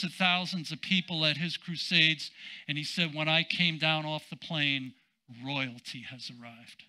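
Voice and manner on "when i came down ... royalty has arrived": T L Osborne's way of talking. Retold or imitated. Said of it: "this is how he talked".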